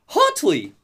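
high odd alien yelp; alien prisoner voice. Retold or imitated. Retelling an alien prisoner's strange reply. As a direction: squeak it like a strange creature. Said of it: "And then the prisoner goes".

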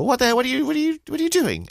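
imitating an older lady's outraged shout; mock furious outburst. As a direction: burst out in hammed-up indignation. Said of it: "frowny sort of".

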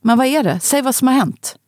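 a touch of a brisk, commanding boss tone. Retold or imitated. Father on the phone turns to his boss voice, lightly commanding. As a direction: slip into dad's take-charge work voice, lightly. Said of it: "han får sin chefsröst".

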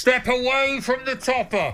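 high, loud, slow cop order; police command. Pretend. Mock police order about cake.

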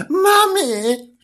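high cry for Mummy; calling out. Acted. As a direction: shout for Mummy from the nursery. Julian calls mother again.

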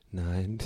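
a slow, deadpan "Nein." with eyes locked on the stranger; slow flat no. Retold or imitated. Refusing a fan at the train station: slow, deadpan "Nein.". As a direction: drag out "Nein." slowly and coldly. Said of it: "in die Augen geguckt und ganz langsam".

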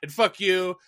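lightly voiced rapper complaining on stage; hammed-up acceptance speech whine; mock rapper rant. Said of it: "just be like".

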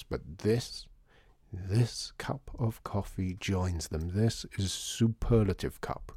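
lightly voiced, hushed connoisseur; reverent coffee lover. Artie praising the coffee.

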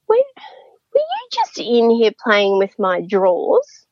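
put-on slow whispered question from a little old lady; hushed old lady. Old patient whispering a suspicious question to the nurse. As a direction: breathe it out slowly, a secretive whisper.

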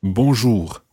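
bonjour ending in guttural R; French bonjour. Shown as a demonstration. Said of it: "trying to get something similar to it".

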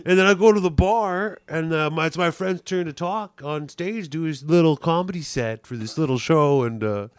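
lightly voiced boastful rambler; Roger impersonation. Roger telling his friend about the bar, lightly put-on gripe. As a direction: ramble self-importantly about your night. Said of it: "Beeching to his friend about the night".

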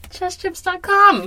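announcer voice. Acted. Show title announced dramatically.

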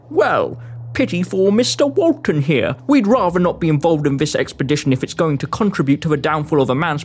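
low-pitched man's voice; deep-voiced foreman gently advising retreat; sympathetic foreman. Foreman advises Walton to leave.

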